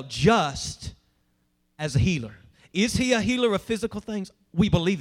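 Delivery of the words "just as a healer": "just" set apart, low and weighty, with a pause after it; stress on just. Real, not acted. Preacher asking congregation to hear one word, "just" isolated and emphatic. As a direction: lean slowly on "just", then pause before finishing. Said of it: "hear this word well".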